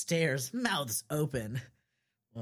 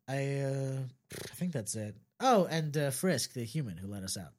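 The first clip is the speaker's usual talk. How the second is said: low Sans voice; 4 semitones lower than usual. Acted. Sans voice in story.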